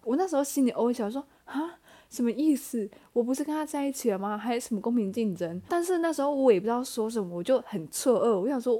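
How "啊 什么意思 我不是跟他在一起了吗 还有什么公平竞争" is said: blindsided, asking herself what he means; baffled. Retold or imitated. Shocked inner thought.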